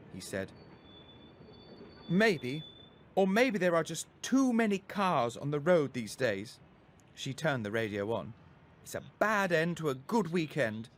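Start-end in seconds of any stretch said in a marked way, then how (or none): 2.1-10.9 a little higher, brisk mum; lightly voiced weary mother; mother answering her son, mildly resigned; mum's voice. A narrator's reading. Mum replies in the car.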